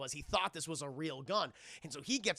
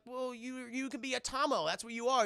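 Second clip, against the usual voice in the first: lightly voiced kid, pitched up; boy's voice; 6 semitones higher than usual. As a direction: imitate a boy pitching his game. Boy proposing game to giant.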